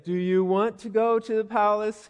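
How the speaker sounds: tentative, slightly lifted question; mildly unsure, retold invitation; hesitant question. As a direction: ask it a little hesitantly, imitating a friend.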